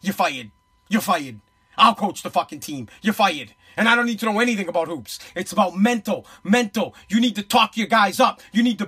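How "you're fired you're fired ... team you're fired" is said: mock firing. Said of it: "I'd walk right down and I'd say".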